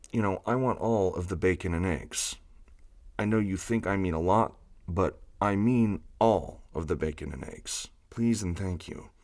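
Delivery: lightly voiced, deadpan gruff impression; Ron Swanson voice. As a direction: clench the throat, a touch nasal. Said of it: "to sort of start to find his".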